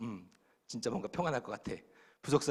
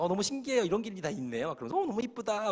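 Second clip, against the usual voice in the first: excited wife; 7 semitones higher than usual. Retold or imitated. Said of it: "우리 아내는 막".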